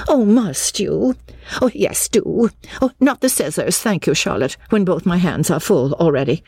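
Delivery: high, fussing woman's voice; flustered matron. A narrator's reading. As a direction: fret aloud in a high, harried voice. Narrator voices Missus Honeychurch, flustered.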